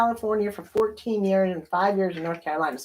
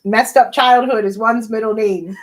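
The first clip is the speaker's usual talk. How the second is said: louder and clearer repeat for the listener; 3 semitones higher, 7 dB louder than usual. Real, not acted. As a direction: say it again, louder so he hears. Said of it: "What is?".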